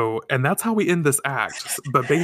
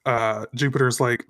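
ordinary talk

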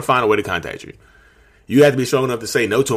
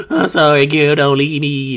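begging an ex back; 6 semitones higher, 4 dB louder, slower than usual. Retold or imitated. Ex begging again.

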